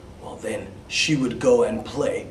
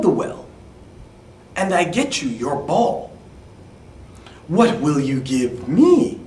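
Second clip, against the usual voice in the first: frog; 3 dB louder than usual. Acted. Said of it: "the frog said".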